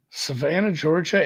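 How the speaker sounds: attempted Southern accent; lightly Southern-accented place name. Shown as a demonstration. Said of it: "in a Southern accent. My Southern accent".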